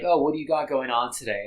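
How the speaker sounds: "Oh, what do you got going on today?" said with a dry sarcastic lilt on "Oh". Shown as a demonstration. Reviewer mocking the couple's routine line, sarcastic. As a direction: lean into the sarcasm on "Oh". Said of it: "kind of like a sarcastic remark".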